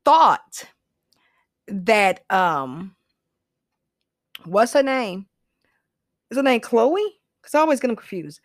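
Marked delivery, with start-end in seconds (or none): 4.4-7.2 whispered aside. Real, not acted. Unsure of a name, aside.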